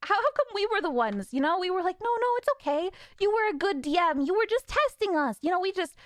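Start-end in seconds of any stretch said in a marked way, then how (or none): 2.0-5.4 high-pitched mock reassurance; imitated comforting. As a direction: imitate players soothing him, pitched up. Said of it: "comfort him about it".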